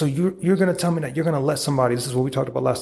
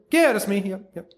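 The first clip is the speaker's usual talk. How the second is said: the sick customer answering the courier; mock customer; 8 semitones higher than usual.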